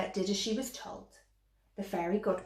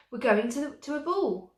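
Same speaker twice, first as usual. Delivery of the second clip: stroppy stepsister; 6 semitones higher, 6 dB louder than usual. A narrator's reading. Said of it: "cried the stroppy one".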